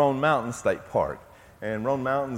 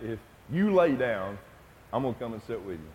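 quiet, tender promise fading softer; 4 semitones lower, 5 dB quieter than usual. Retold or imitated. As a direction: promise softly to stay beside him. Son promising to stay.

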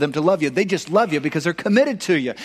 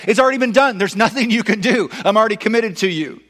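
emphatic reassurance; 5 semitones higher, 3 dB louder than usual. Retold or imitated. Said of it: "Christ says".

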